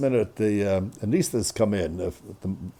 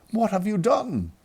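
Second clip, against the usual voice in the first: high, slow, acted dismay; appalled; 8 semitones higher, slower than usual. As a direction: draw it out in horrified disbelief. Appalled son confronting mother after call.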